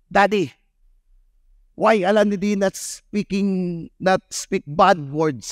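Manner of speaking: put-on a young son asking his dad, slowly; child's voice. Son asking daddy, a light child voice.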